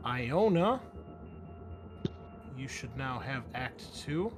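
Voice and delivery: ordinary talk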